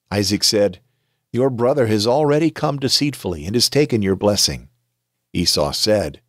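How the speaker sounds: measured storytelling read of a Bible passage; calm audiobook narration; scripture reading. A narrator's reading. Reads Genesis story aloud.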